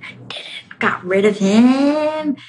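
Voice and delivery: whispered smug victory; gloating whisper. Retold or imitated. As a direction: hiss the win under your breath. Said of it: "And your ego's".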